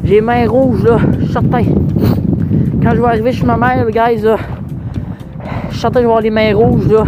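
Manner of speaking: talking loud to be heard over wind. Real, not acted. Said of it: "Je sais pas si vous m'entendez comme il faut".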